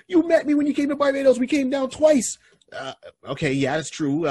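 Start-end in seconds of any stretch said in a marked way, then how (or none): 0.1-2.4 much higher, louder explaining; cousin explaining. Retold or imitated. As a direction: remind him insistently, high. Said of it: "He's like".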